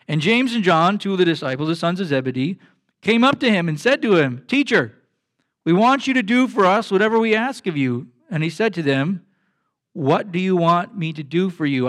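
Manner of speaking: a pastor reading Mark ten from the pulpit; scripture reading. Acted. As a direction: read the passage to the congregation. Reads Mark chapter ten aloud.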